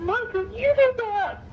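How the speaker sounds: very high, slow and gentle; high gentle insisting to his wife; squeaky voice. Retold or imitated. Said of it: "his voice gets all low and squeaky".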